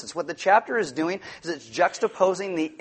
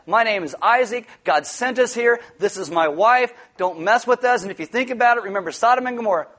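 bold declaration; 5 semitones higher, 4 dB louder than usual. Pretend. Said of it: "Isaac should have said".

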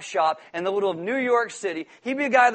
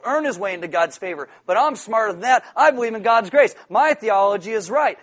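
louder, lightly self-satisfied boasting; mock smugness; 5 dB louder than usual. Modern Christian sneering at the Pharisee, mock superiority. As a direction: imitate someone proudly looking down on another.

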